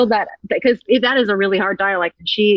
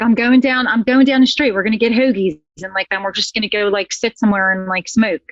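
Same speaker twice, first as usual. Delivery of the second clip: Philly accent. Shown as a demonstration. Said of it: "Lee Mulligan's like".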